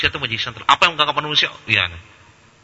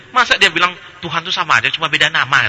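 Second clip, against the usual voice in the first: incredulous retelling; 4 semitones higher, 3 dB louder than usual. Retold or imitated.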